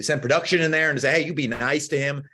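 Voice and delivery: high, urgent retold yell; mock yelling. Viewer tells contestant to be nice, mock yelling. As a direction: pitch it up, scolding through the screen. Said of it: "I'm, like, yelling".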